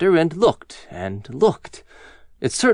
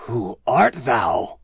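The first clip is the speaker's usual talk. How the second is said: low, very slow giant's question; hushed wonder, drawn out; awed giant; 5 semitones lower, much slower than usual. A narrator's reading. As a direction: ask slowly and low, in awe. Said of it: "a strange awe fell on him".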